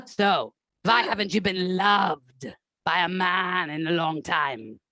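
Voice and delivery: a lightly done severe German therapist; German therapist accent. Acted. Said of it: "That's the German".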